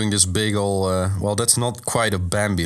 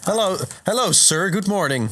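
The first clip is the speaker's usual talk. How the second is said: high-pitched polite creature voice; chirpy formal caller, pitched up; Venomoth; 7 semitones higher than usual. Acted. Moth Pokemon greets a man at his door, high voice. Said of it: "I'm a special Pokemon".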